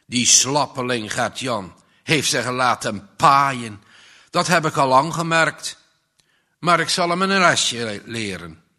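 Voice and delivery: loud scornful rant about the weakling; angry threat. Acted. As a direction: spit out contempt and menace. Arjaan rages at Gert-Jan.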